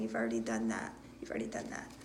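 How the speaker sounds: echoed whisper. Acted. Echoing the spirits' message.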